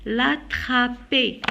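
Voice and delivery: slow "L'attraper" ending in é, silent r; drawn-out "L'attraper" with no final r. Shown as a demonstration. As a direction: stretch "L'attraper" syllable by syllable, la-tra-pé. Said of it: "je la prononce E".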